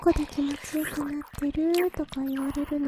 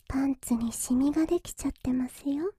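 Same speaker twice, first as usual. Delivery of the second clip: whispering. Acted. Whispered tease.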